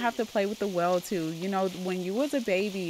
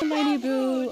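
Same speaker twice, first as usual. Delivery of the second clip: louder, higher pet-name cooing; gushing mother; 5 semitones higher, 7 dB louder, slower than usual. Pretend. Mother to her little girl at the well, gushing. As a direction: play a mom bursting with affection.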